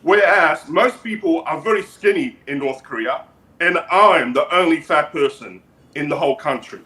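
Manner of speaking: measured, halting dictator voice; North Korean leader character. Acted. Leader boasts about noodles and gifts, measured dictator voice. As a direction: boast in deliberate, accented phrases.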